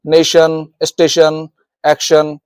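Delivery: नेशन, स्टेशन, एक्शन each ending in "shun"; TION said as शन. Shown as a demonstration. Teacher giving TION examples, clear शन ending in नेशन, स्टेशन, एक्शन. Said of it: "इसको बोला जाता है शन".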